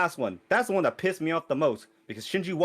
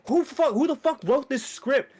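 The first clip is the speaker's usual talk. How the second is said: raised, indignant retold complaint; exasperated outburst; 7 semitones higher than usual. Viewer cursing whoever wrote the movie, exasperated retold outburst. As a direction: demand it in high exasperation. Retelling outrage at the movie's writing.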